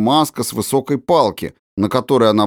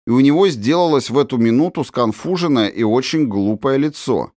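plain reading voice

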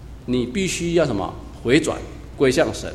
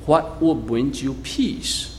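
慢读英文; 3 dB quieter, slower than usual. Shown as a demonstration. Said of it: "你如果看英文的话".

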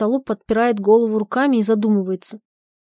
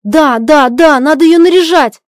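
loud, higher desperate yell; shouting; 6 semitones higher, 10 dB louder than usual. Acted. Husband yells about dressing up wife, loud and bitter. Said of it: "Кричит".

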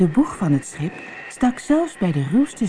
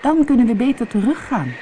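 lightly voiced higher dolphin; a hint of an animal character; 8 semitones higher, 4 dB louder than usual. A narrator's reading. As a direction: answer as the dolphin, pitched up. Dolphin answers the worried mermaid.

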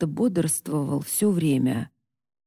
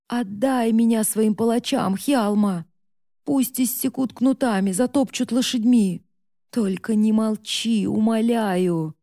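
desperate pleading; 3 semitones higher than usual. Acted. Mother begs son to punish her.

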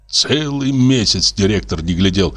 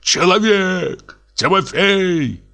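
choking with rage; 8 semitones higher, slower than usual. Acted. Lodger threatening the neighbours, furious. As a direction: sputter it in fury. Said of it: "захлёбываясь от злости".

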